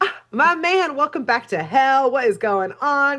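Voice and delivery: high-pitched, elated big-fan greeting; delighted host playing up the welcome; Beelzebub. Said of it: "He's like".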